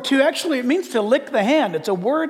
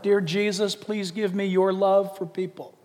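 model prayer; 4 semitones lower, 5 dB quieter than usual. Shown as a demonstration. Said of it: "So write this down".

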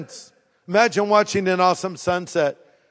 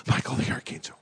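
archangel voice; 9 dB quieter, faster than usual. Pretend. Archangel announcing himself.

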